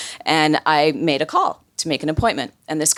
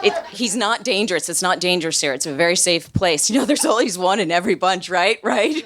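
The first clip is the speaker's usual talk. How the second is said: insistent reassurance climbing higher; defensive; 3 semitones higher than usual. Retold or imitated. Matt assuring visitors the place is safe, defensive. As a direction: imitate anxious over-reassurance, ending on pleading questions. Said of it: "Matt on the defensive".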